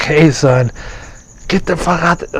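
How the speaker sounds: high, loud scolding shout; angry yell at son. Retold or imitated. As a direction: snap at the kid to get off the printer. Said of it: "I get mad at him".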